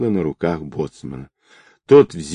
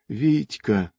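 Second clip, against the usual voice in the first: soft, higher-pitched whisper; 4 semitones higher, 6 dB quieter than usual. A narrator's reading. Girl clings to her man's neck, soft relieved whisper. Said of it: "прошептала Настя".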